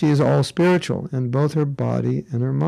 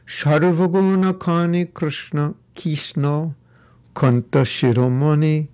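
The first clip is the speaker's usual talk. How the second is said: Bengali accent. Shown as a demonstration. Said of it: "Bengali accent".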